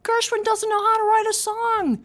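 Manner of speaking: high, loud, slow ranting; yelling across the room. Retold or imitated. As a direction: bellow it across a club. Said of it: "He would shout across the room".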